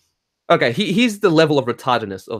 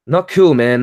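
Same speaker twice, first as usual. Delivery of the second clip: louder, punched disapproval; loud scolding; 6 dB louder than usual. Real, not acted. Scolding people who deny good and bad, said louder.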